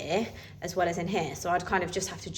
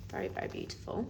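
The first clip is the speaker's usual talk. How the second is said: breathy admiring; 11 dB quieter, faster than usual. Real, not acted. Admiring the yellow leather.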